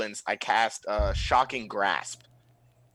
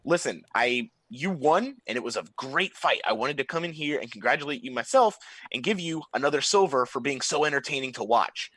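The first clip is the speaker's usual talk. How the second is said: nervous pleading; 3 semitones higher than usual. Acted. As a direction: talk fast to calm the goblin down. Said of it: "I'm gonna be like".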